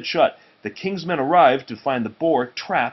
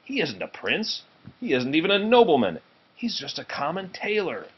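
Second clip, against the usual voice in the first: indignant; 5 semitones higher than usual. Acted. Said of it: "recoiled with indignation".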